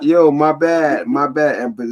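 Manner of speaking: slow mock West African accent; hammed-up Ghanaian apology. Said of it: "your Ghanaian accent".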